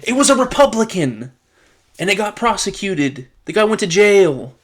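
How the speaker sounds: incredulous loud punchline; exasperated outburst. Real, not acted. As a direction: shout the irony out in disbelief.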